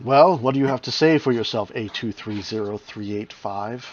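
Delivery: mocking ghoul voice. Ghoul Larex taunting Ryder.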